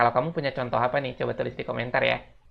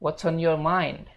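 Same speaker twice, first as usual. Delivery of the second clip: slow, higher model question; model sentence; 4 semitones higher, slower than usual. Shown as a demonstration. Teacher introduces the question slowly. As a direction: read it slowly. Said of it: "kita lanjut".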